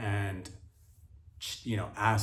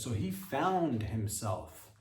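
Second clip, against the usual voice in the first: "found" slow and falling; stress on found; slower than usual. Shown as a demonstration. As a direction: drag out "found". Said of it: "emphasis on fa".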